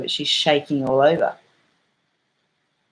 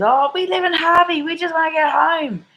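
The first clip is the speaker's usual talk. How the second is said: high, whining complaint; hammed-up pleading customer; mock whiny woman; 13 semitones higher than usual. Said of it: "this woman says".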